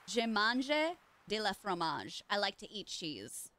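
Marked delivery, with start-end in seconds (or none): 0.1-2.2 mock French. Shown as a demonstration. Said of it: "I took nine years of French".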